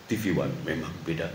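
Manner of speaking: low, quiet TV announcer read; deep announcer voice. Shown as a demonstration. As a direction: read it like a channel tagline, deep and soft. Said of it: "Nggak mungkin saya ngomongnya kayak gini". (suara penyiar TV yang dalam)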